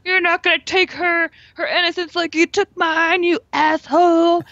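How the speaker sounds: high, loud furious scolding; angry old woman. Retold or imitated. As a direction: scold the ghost fiercely. Quoting Lin Shaye scolding ghost.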